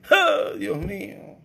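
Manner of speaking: slow, high wail of ah, Dios mío; a stretched, high lament; anguished cry. Acted. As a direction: cry it out slowly to God, stretched. Lamenting exclamation in sermon.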